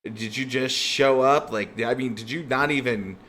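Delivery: a crime boss laughing at amateurs; mocking boss.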